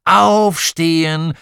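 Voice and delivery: high, loud, drawn-out call; long-stretched yell to get up; wake-up shout. A narrator's reading. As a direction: holler it slowly into a sleeper's ear.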